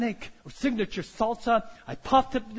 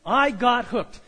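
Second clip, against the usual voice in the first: emphatic repeat; 5 dB louder than usual. Shown as a demonstration. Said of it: "repeated for emphasis".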